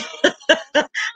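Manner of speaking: breathy chuckle; amused little laugh to herself. Real, not acted. Host amused by her production staff, chuckling. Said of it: "I'm laughing because".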